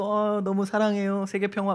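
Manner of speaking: a hint of a pageant winner's sugary speech; lightly mocking beauty pageant voice; mock beauty queen. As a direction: parody a Miss Persia acceptance line. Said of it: "미스 페르시아에 뽑혀서".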